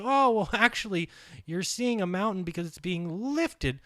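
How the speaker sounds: high, laughing mock explanation; mocking quote. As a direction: sneer it like a smug debunker. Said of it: "It's not even hard for them to say".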